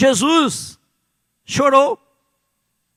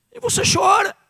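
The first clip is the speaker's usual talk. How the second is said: preaching cry; 9 semitones higher than usual. Real, not acted. Preacher's climax line.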